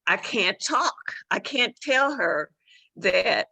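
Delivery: slow, high, tearful voice; retelling a choked-up moment, voice catching. Retold or imitated. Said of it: "that's why I choked up".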